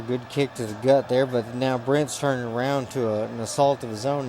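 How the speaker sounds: usual speaking voice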